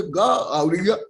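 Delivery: ग and य spelled out very slowly, letter by letter; अक्षर अलग-अलग धीरे-धीरे; slow letter-by-letter demo. Shown as a demonstration. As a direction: drag out ग and य, one at a time. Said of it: "ये दोनों गलत है".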